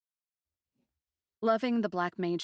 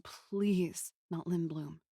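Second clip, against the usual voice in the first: slow plea; slower than usual. Retold or imitated. Narrator fearing for the city.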